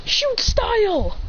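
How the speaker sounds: high, drawn-out move name; attack call. Acted. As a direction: announce a kick like an anime hero. Acted attack call in story.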